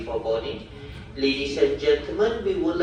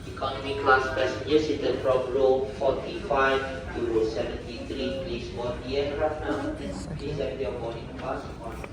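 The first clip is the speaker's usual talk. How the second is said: boarding call over the PA speaker; formal gate announcement through loudspeaker; airport announcement. Real, not acted.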